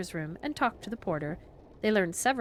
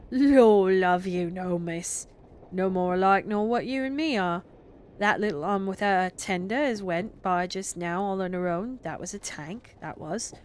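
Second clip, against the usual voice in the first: a hint of a hearty country porter, louder at first; lightly voiced porter; 4 dB louder than usual. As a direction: play the cheerful railway porter, drawing out the start. Porter Perks explaining engines.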